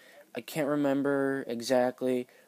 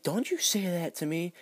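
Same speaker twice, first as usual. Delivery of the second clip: sassy; 6 semitones higher than usual. Retold or imitated. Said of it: "she's got all sassy with me".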